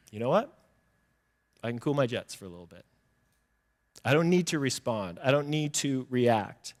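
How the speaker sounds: low, soft, measured self-talk; calm restraint. Acted. Patient person declining to retaliate, calm restraint. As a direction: let it go quietly and calmly.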